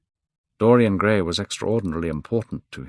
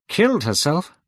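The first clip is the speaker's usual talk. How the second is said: high, louder shocked cry; 10 semitones higher, 5 dB louder than usual. A narrator's reading. Hallward crying out at news of suicide. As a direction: gasp it out, much higher. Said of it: "cried Hallward".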